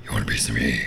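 very low, slurred Bobcat growl; belligerent drunk. Retold or imitated. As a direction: play a belligerent drunk picking a fight. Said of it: "Bobcat doesn't talk like that anymore".

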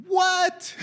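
high, stunned "What?"; astonished what. Real, not acted. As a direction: react as if you can't believe it. Astonished at the verse.

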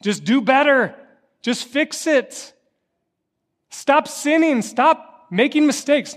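mock a scolding voice from a mountaintop; scolding God figure.

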